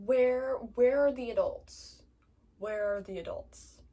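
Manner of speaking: loud, exasperated demand; real angry outburst. Real, not acted. Venting to viewers about the absent adults, loud angry outburst. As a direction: voice rising in real anger at the missing grown-ups. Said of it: "I'm so mad".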